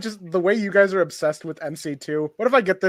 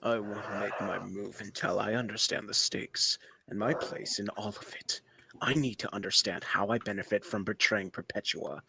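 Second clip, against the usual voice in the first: Owlman voice; 7 semitones lower, 13 dB quieter than usual. Acted. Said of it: "can I do Owl Man".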